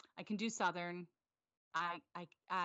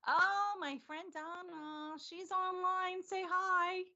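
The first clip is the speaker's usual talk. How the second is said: high, loud, drawn-out squeal of delight; excited greeting; 12 semitones higher, 5 dB louder, much slower than usual. Real, not acted. Host spots a friend online and calls out hello, excited greeting. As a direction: stretch it out high, slow and gleeful.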